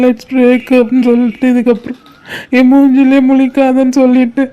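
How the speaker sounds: tearful, hurt confession; crying. Acted. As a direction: pour out the heartbreak while weeping. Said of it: "டேய் அழாதடா".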